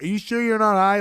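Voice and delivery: mildly incredulous, quoting a doubter; skeptical questioning. Retold or imitated. Leroy still questioning Max's story, retold with mild skepticism. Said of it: "Leroy is questioning it still".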